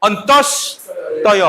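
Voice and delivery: अन्तस्तय drawn out very slowly, syllable by syllable, rising at the end; अन्तस्तय sounded out slowly with a rising end; slow spelled-out demo. Shown as a demonstration. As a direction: stretch अन्तस्तय out slowly for the class. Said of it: "ता हनि परिनाय".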